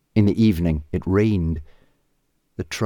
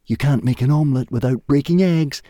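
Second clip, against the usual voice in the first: higher, breezy caveman voice; lightly cheerful caveman; 7 semitones higher, 3 dB louder than usual. A narrator's reading. Og excusing the poisoned food, cheerful. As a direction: shrug it off lightly. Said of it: "said Og cheerfully".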